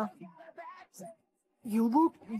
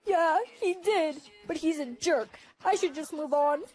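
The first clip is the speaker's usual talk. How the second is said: higher, put-on girlfriend voice; girly phone voice; 5 semitones higher than usual. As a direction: play the upset girlfriend, pitched up.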